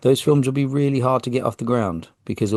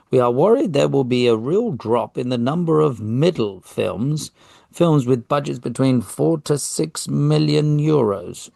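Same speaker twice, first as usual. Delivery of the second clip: put-on British accent; 4 semitones higher than usual. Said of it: "gone with the kind of British accent".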